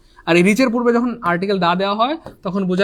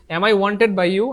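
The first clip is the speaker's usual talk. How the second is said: very slow, word by word; slowly rereading the exam question to the class; slow dictation; much slower than usual. Shown as a demonstration. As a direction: stretch every word of the question.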